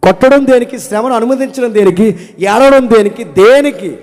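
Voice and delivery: high, loud rhetorical question; forceful question. Real, not acted. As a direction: hammer the question home. (గట్టిగా ప్రశ్నించడం)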